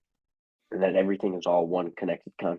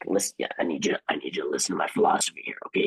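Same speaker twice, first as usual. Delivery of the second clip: put-on drunk bar guy; 4 semitones lower, faster than usual. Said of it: "crazy drunk guy that you meet at the bar who's like".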